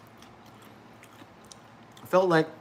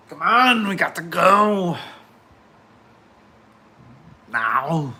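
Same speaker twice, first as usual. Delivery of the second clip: urgent; 3 semitones higher, 7 dB louder, slower than usual. Real, not acted. Urging something to work.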